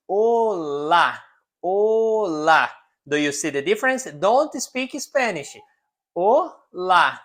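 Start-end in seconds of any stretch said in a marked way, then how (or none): 0.1-2.7 "olá" stretched out in two syllables, Portuguese style; teacher's careful Portuguese "olá"; Portuguese pronunciation. Shown as a demonstration. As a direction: model "olá" slowly with a long first vowel. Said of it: "But in Portuguese".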